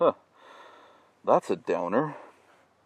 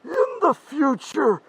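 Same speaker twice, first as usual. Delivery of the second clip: higher, slow, anguished warning; dramatic doom warning; 5 semitones higher, slower than usual. Acted. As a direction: plead it like a tragic prophet. Future self's dire warning.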